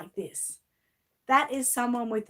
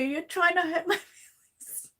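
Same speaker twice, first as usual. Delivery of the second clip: mock-hurt whisper; 7 semitones higher than usual. Teasing mock-hurt after kind messages.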